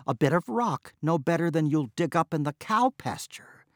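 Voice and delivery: exasperated wife scolding, lightly voiced; mild scolding tirade; scolding outburst. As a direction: berate him in frustration. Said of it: "flung up her hands and burst out".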